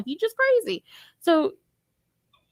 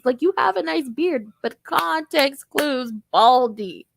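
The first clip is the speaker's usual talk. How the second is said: exasperated scolding. Retold or imitated. Karen scolding husband over pickles.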